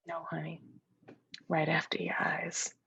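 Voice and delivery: hushed, knowing whisper. Acted. Imaginary friend hinting she came with the eyes, whispered. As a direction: slip in the secret softly.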